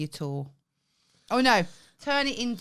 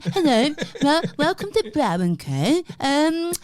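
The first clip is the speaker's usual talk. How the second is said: louder, stumbling promo voice; awkward voiceover; 4 semitones higher, 6 dB louder than usual. Retold or imitated. A hint of the awkward business voiceover. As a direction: fumble a cheerful website intro. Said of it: "I sounded like a dickhead".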